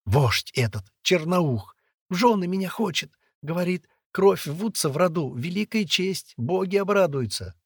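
put-on high, tearful girl's lament; stifled sobbing. A narrator's reading. Girl confiding forced marriage, tearful. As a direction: pour it out through acted sobs. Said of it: "Послышались сдавленные рыдания".

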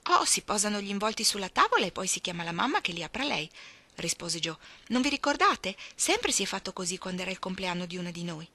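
a lightly voiced Jo, keen and bossy; eager Joe. (Jo vivace e un po' autoritaria)

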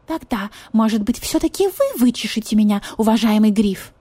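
high, coaxing yet demanding; demanding cat. Acted. Marquise cat demands vulture comb her, coaxing. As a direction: insist sweetly like a spoiled lady. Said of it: "требовательно смотрела".

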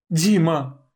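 high loud cry of his name. A narrator's reading. Gelya crying out to Dima as guards grab him, high and loud. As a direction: call out to him in panic.

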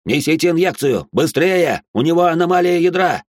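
loud urgent shout, high; doctor shouting for an injection; doctor's voice breaking. Acted. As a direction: yell orders in a panic. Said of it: "голос врача срывается".

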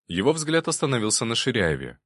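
ordinary delivery

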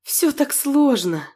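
slow, moaning sigh of words; weary moan. Acted. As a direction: groan it out, overwhelmed. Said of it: "простонала Нинель".

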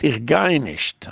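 slow, deliberate refusal; firm refusal. Acted. Coaching a child to refuse the principal, slow firm refusal. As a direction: stretch each word out slowly.

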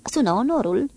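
loud, high angry order; shouting. Acted. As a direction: bark the command across the deck. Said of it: "Archer strigă". (Archer strigă ordinul, tare și răstit)

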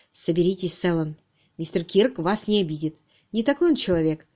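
composed, kindly steadying tone; even, unruffled comfort; calm reassurance. Acted. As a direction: settle a frightened man down. Peter calms frightened suspect.

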